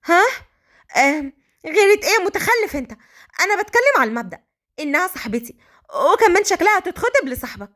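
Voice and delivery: nervous, high-pitched denial; Malika, flustered. Acted. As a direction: caught out and protesting too much. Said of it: "مليكة بتوتر".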